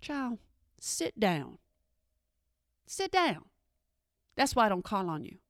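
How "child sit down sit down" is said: exasperated order. Retold or imitated. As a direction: shoo the kid back to his seat. Teacher scolding child.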